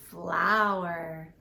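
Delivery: flower with a stretched f sound. Shown as a demonstration. Teacher sounding out flower for kids, f stretched. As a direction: lean on the f of flower. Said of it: "Let's use our sound".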